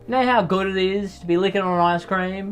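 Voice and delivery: emotional, passionate insistence; worked up. Real, not acted. Host argues for cones over cups, worked up. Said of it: "I'm getting so emotional".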